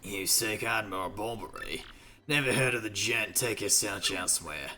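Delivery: low, dismissive English character voice. Acted. Old sailor denying he knows the admiral, dismissive.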